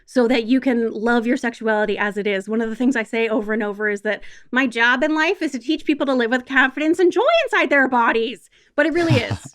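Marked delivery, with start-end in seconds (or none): 4.5-8.5 lilting, swelling mission statement; lofty slogan. Shown as a demonstration. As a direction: let the phrase swell, lingering on joy. Grand slogan, then repeated earnestly.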